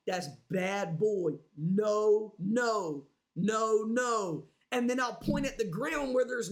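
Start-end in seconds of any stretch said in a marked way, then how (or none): 0.1-4.5 low, slow scolding of a dog; stern owner telling off his dog. Retold or imitated. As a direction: scold the puppy firmly, drawn out. Scolding dog over his mess.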